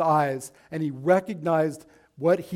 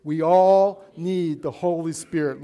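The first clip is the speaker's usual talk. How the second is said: louder, measured lead for all to repeat; raised call-and-response voice; leading congregation; 6 dB louder than usual. Shown as a demonstration. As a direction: lead the room in saying it together, firmly. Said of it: "Can, can you all say that with me?".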